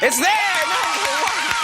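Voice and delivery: high, loud squawky duck voice; Donald Duck voice. Retold or imitated. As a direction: quack it out like a cartoon duck. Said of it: "Very bad Donald Duck impression on my part".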